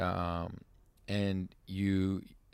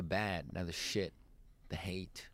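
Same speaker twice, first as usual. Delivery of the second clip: whispering; 4 semitones lower, 11 dB quieter, slower than usual. Real, not acted. Whispered ominous ask.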